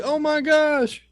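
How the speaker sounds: high, falling "Oh my gosh"; mock awe. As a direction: gasp it out like the whole party. Party reacting.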